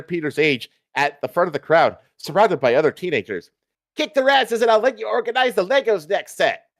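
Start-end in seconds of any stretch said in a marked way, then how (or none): 4.0-6.7 put-on high excited teen shout; boy shouting. A narrator's reading. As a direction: shout it like a cheeky teenager. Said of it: "The boy shouts".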